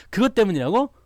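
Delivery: high, loud disbelieving question; incredulous boyfriend. Acted. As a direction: act out a boyfriend's exasperated disbelief. Acted boyfriend in couple's quarrel.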